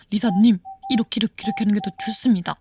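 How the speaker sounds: low, measured know-it-all advice; lightly voiced earnest backseat coach; polite adviser. Quotes viewers giving earnest advice.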